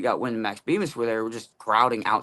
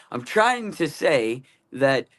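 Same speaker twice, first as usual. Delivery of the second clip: mumbled Boomhauer; 4 semitones higher, slower than usual. Retold or imitated. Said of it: "Boomhauer is what you did".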